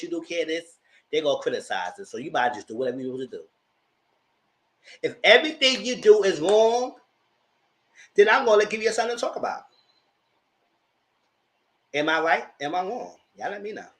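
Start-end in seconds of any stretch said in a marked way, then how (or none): 5.0-9.6 defiant. Real, not acted. Telling the critics she will give them something to talk about, defiant. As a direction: throw down the gauntlet. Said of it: "defiant declaration".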